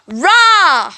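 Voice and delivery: loud mock roar; bear roar.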